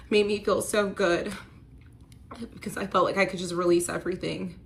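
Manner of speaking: pushing words out through real tears; emotional. Real, not acted. About her best friend, real tearful voice. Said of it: "I get emotional at this part".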